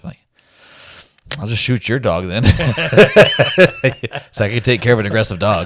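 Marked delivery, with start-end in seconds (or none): 1.4-2.4 louder, laughing through the punchline; laughing joke. Real, not acted. Retelling his comeback to the driver, laughing. 2.5-4.3 loud, high burst of laughter; big laugh. Real, not acted. Laughing hard to a friend at his own joke.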